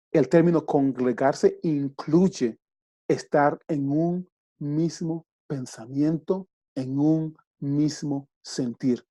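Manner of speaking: slow, weighty preaching of the definition; deliberate emphasis on congregarse; slow emphatic teaching. Real, not acted. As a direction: lay each word down slowly for the congregation.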